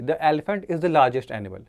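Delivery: slow, careful dictation of the example; slow example read. Shown as a demonstration. Teacher reading the example sentence to the class, slowly. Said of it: "जैसे यहाँ देखिए".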